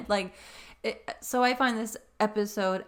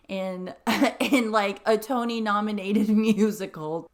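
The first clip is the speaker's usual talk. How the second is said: laughing through words; 6 dB louder than usual. Real, not acted. Laughing at absurd fast casting.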